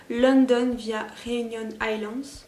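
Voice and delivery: English names said slowly in a put-on English accent; accent anglais. Real, not acted. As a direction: ham up the English accent on the London product name. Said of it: "accent encore une fois". (accent anglais appuyé et lent sur les noms anglais)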